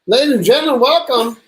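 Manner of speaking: a touch of showy emcee, announcing the guest; lightly hammed-up host welcome, cut short; mock announcer intro. Host opens the live show for his cohost, lightly hammed-up emcee. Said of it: "better do that intro".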